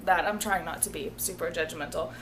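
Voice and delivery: slipping into a country accent; a light Southern country twang. Real, not acted. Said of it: "that country accent came from".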